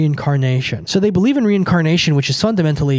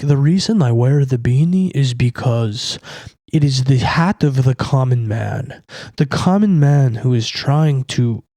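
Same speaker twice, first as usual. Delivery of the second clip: mocking Arabic-accented drawl, lower; 4 semitones lower than usual. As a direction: lightly imitate a slow Arabic drawl. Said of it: "trying to do this, like, you know, Arabic drawl".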